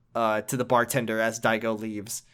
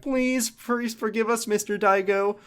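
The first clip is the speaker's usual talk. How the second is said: higher, slow, pleading whine; mock begging; 8 semitones higher than usual. Thugs begging Daigo for forgiveness, hammed-up pleading. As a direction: grovel for mercy, hammed-up. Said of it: "high school shitheads are like".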